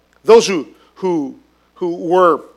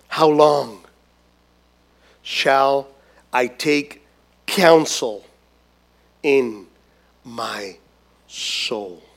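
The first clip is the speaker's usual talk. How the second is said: each word lower and softer, sinking to a near whisper on soul; fading lament; 7 semitones lower, 4 dB quieter, much slower than usual. Acted. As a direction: let the question sink into despair. David's lament read out.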